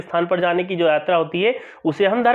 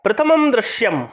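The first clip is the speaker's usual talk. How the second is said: slightly higher, ringing announcement; dramatic scene announcement; 3 semitones higher than usual. Shown as a demonstration. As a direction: announce the first scene like a stage herald. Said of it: "नाटक है इसलिए यहाँ पर दृश्य".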